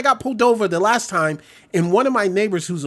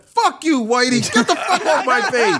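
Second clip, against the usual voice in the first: mock defiant; 4 semitones higher than usual. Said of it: "Be like".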